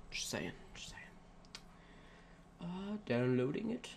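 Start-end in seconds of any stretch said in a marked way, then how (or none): 0.1-1.0 very low, hushed, near whisper; barely voiced throwaway mumble; muttered aside. Real, not acted. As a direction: drop it right down under your breath. Muttered aside after a jab.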